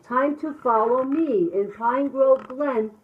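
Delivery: animated, rhythmic picture-book narration; reading to children. A narrator's reading. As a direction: bounce through the rhyme with sound effects.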